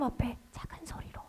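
whispered illustration of quiet praying; small voice. Shown as a demonstration. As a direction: drop into a hushed whisper. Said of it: "또 작게 하나님". (작은 소리로 속삭이듯)

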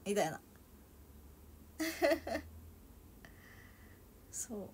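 normal talking voice

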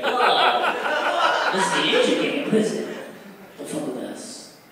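hammed-up tough gangster, high whoop then hushed threat; mock tough gang boast. Stand-up comic voicing an imaginary Asian gang, mock tough. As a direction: puff up like a prison gang.

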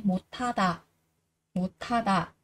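"Một tha tà" with a breath-puffed th; careful model of tha, not ha; aspirated th. Shown as a demonstration. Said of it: "Một tha tà chứ không phải".

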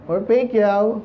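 Pacquiao said the American way, like pe-kow; mock the American way of saying Pacquiao; American accent. Shown as a demonstration. Preacher mimics Americans saying the name, American accent. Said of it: "Sabi ng Amerikano".

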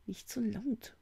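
high, hushed warning hiss; urgent hiss. A narrator's reading. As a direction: hiss it to shush a friend. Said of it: "zischte Nick unwillkürlich". (gezischte, gedämpfte Warnung)

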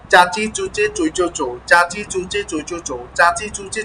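same syllable line looped in an even rhythm; repeated drill line. Shown as a demonstration. Teacher showing how to repeat each line ten times, drill repetition. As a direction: chant the line round at a steady, moderate clip. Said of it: "এভাবে দশ বার পড়ব".

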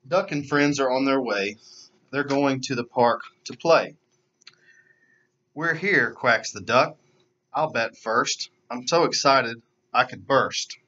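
put-on lively storybook narration for kids; animated read-aloud voice; children's story reading. A narrator's reading. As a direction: read it like story time for little ones. Reads picture book to children.

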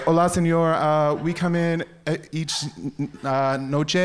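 a playful put-on Spanish accent, halting; fumbling tourist Spanish, hammed-up; mock Spanish accent. Guest phoning the restaurant, in mock Spanish accent. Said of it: "I suddenly spoke Spanish".

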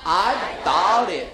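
mainland phrase. Shown as a demonstration. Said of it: "say it with me".

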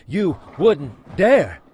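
milk it, building melodrama; hammed-up rising dare.

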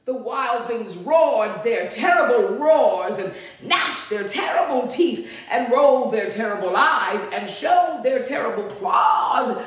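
lively, sing-out story reading; storybook narration. A narrator's reading. Reader tells children of Max's room, storybook narration. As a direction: read it to small children, animated.

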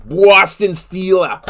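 put-on tentative Boston accent retry. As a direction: have another go at the Boston accent, unsure. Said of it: "do you actually have the Boston accent?".

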